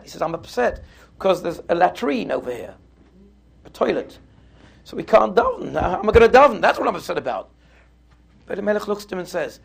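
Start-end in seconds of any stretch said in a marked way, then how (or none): 0.2-7.5 mildly acted protest, getting more agitated; upset. Upset prisoner telling his companion he can't daven, mildly agitated. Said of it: "Rebbe Zisha was very upset".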